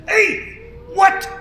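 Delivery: high startled question; confused at the laughing; puzzled hey what. Acted. Beaver notices laughter.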